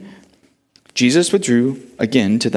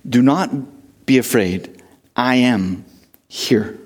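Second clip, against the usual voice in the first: Jesus reassuring; 3 semitones lower than usual. Retold or imitated. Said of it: "The NLT rephrases this".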